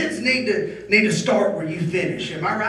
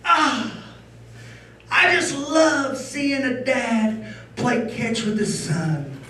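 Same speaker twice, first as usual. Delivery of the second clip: sweet neighbor; 3 semitones higher, 3 dB quieter, slower than usual. Retold or imitated. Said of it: "Neighbor pulls up and says".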